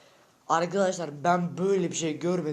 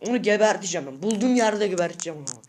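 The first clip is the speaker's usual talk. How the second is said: heated threat with a raised voice; real angry rant; angry yelling; 4 dB louder, faster than usual. Real, not acted. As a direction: threaten the rival, really worked up. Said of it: "Öyle bağırıyorum".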